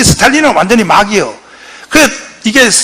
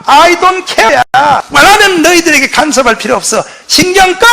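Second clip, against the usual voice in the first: miffed brush-off; 5 semitones higher than usual. Retold or imitated. Truman sulking, telling them off.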